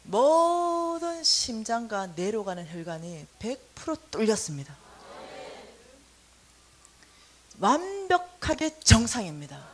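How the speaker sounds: slow, deliberate announcing; a slow, measured doctor's report; doctor's announcement. Retold or imitated. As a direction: announce the result slowly like a doctor. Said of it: "의사 선생님 이렇게 말하는 거예요".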